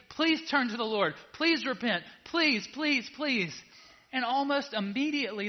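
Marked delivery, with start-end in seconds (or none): 0.1-3.5 raised, pleading prophet's cry; higher, louder pleading please please; begging prophets. Retold or imitated. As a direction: beg like a desperate prophet. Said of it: "the prophets are begging".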